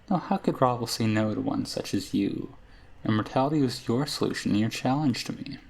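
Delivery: a hint of a wistful old witch; crone's voice, barely shifted; lightly voiced witch Ravel. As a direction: muse like a forgetful crone.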